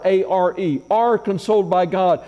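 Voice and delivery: A R E, spelled out then are leaned on; stress on are. Shown as a demonstration. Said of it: "I put a little emphasis on that word are".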